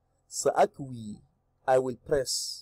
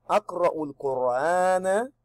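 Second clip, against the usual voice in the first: careful model reading; 4 semitones higher than usual. Shown as a demonstration. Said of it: "I recite Quran".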